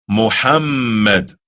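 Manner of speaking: Muhammad slow, mm held long; correct pronunciation. Shown as a demonstration. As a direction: model Muhammad slowly for the learner. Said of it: "Can you say that? Try it".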